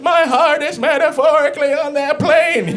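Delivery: high, earnest movie line; a hint of a rom-com hero; mock rom-com hero. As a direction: declare it like a swooning lead.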